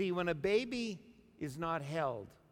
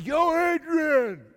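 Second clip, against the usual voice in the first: much higher, louder "Yo, Adrian!" Rocky yell; Stallone impression; 13 semitones higher, 14 dB louder, much slower than usual. Preacher does Stallone's Rocky line for laughs, loud. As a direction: holler "Yo, Adrian!" like Rocky Balboa. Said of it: "Was that it?".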